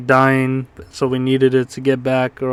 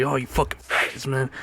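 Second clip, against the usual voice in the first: robot voice; 9 dB quieter than usual. Retold or imitated. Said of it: "it's gonna be all robot voice".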